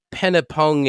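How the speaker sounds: ordinary delivery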